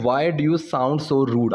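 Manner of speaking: slow, deliberate example sentence; slow teaching demo. Shown as a demonstration. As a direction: lay each word out slowly. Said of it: "बहुत ही अच्छा structure है यहाँ पे". (धीरे-धीरे समझाते हुए)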